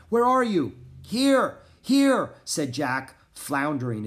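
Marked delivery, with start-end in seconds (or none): 0.1-0.7 high, loud searching call; crying out. A narrator's reading. Annie searching for Jack in the snow, crying out. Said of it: "cried Annie". 1.0-2.3 loud, high answering shouts; calling out. A narrator's reading. Jack buried in snow answering Annie, calling out.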